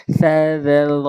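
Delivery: সা, জেল, র with Arabic th sounds; tongue-tip letters. Shown as a demonstration. Teacher drills learners, separate dental সা, জেল, র. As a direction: set tongue tip on the teeth for each of সা, জেল, র. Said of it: "এইভাবে উচ্চারণ করতে হয়".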